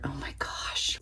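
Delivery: soft awed whisper. Real, not acted. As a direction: whisper it as if sharing a secret. Hushed over the book art.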